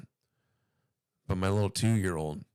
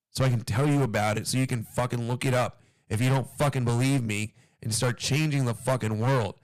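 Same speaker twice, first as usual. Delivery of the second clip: Alex Jones rant; 3 semitones higher than usual. Pretend. Ranting at weak consumers, a raised Alex Jones-style tirade. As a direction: rail at the listener like a conspiracy-radio host. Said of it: "going on that fucking Alex Jones tangent".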